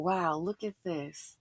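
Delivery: slow whispered aside; whispered thought. Retold or imitated. Watching the scene, she whispers her own thought. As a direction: breathe it out slowly in disbelief.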